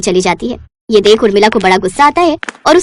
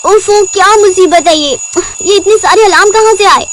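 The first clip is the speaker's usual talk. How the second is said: annoyed groan; 7 semitones higher than usual. Acted. Roshni annoyed by alarms.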